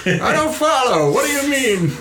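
very high little voice, puzzled; puzzled bottled character. Acted. Stimley questioning Stuart's news, high-pitched and puzzled. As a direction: squeak out confused questions.

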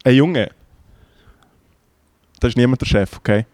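re-enacted Bernese stage manager; lightly voiced Bernese brush-off; imitated Bernese German. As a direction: Bernese put-down with long, deliberate pauses. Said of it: "Ich bin du, du bist er".

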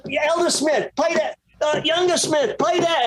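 very high mimicked English accent, calling out. English producer over talkback to two brothers, high English accent. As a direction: imitate an Englishman ordering musicians about. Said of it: "And that's how he talked to us".

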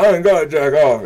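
mocking heckler voice. Comic imitating heckler's refusal, mocking.

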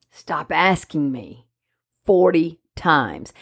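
pleading, drawn-out exasperation, lightly acted; exasperated dog. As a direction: beg them to stop, speaking for a fed-up dog. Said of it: "your dog's like".

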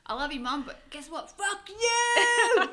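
sweet start snapping into a laughing high shout; sweet then suddenly yell it with a laugh; voicing the puppy. Voicing the puppy telling her mum off, laughing. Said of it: "she's like".

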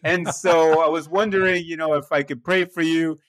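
lightly hammed-up pious announcement; overly spiritual. Younger self asks a stranger to pray, overly spiritual. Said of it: "So I made it all spiritual".

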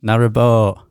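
NARROWBOAT with broad Yorkshire vowel, falling. Shown as a demonstration. Co-host obliging host's request, effortful Yorkshire NARROWBOAT. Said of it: "Oh, that's really hard".

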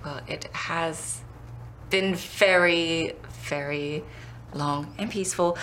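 slow, dry, pointed; pointedly drawn out. Acted. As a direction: stretch each word sarcastically.

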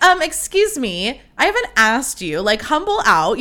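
playful mock-offended retort; mock indignation. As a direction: put her in her place, jokingly. Friend mock-scolds her, joking.

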